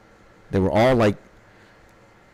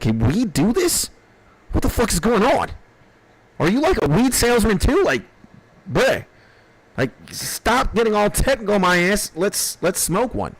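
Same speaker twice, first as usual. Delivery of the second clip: stoned disbelief; 7 semitones higher than usual. Retold or imitated. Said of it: "I was like".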